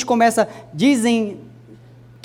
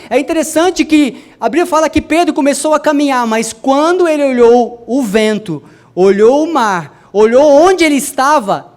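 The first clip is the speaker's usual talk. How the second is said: loud, dramatic sermon build; forceful preaching; 4 semitones higher, 6 dB louder than usual. Acted. Preacher tells how Peter looked at the wind, forceful dramatic preaching. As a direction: hammer each phrase of the list, slowing for weight.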